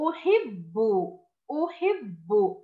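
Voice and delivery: أحب read slowly, the first sound a clear أ; model word. Shown as a demonstration. Teacher reads the word to the class: slow أحب. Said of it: "الكلمة الثانية".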